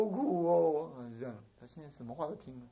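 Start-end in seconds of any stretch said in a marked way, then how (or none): 0.1-0.9 drawn-out weary complaint; mild mock lament. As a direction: draw it out like a suffering patient. Acted patient saying life is bitter. (拖长声的假装叫苦)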